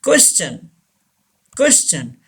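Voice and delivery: "question" said as kwes-chun. Shown as a demonstration. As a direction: give the T in "question" a ch sound. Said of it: "च का sound देता है". ("question" में टी का "च" sound)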